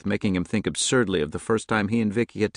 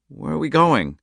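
put-on raised child voice, uneasy; a worried young daughter's question; higher child voice; little girl asking; 8 semitones higher, 5 dB louder than usual. A narrator's reading.

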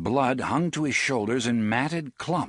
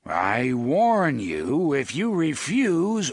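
sharp, loud dog bark words; 3 semitones higher, 3 dB louder, slower than usual. A narrator's reading. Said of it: "Oy barked".

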